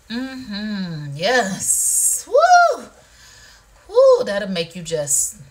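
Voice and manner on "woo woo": loud, high "woo" of pleasure; high whoop. Real, not acted. Host feeling the massager, whooping.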